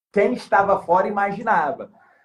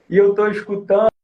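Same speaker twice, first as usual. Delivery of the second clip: ordinary talk, nothing marked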